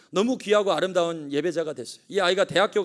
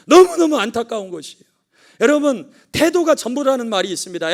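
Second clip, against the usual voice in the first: loud, high impassioned sermon; fiery preaching; 6 semitones higher, 7 dB louder than usual. Acted. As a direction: preach it full force to the congregation. Preaching at full force.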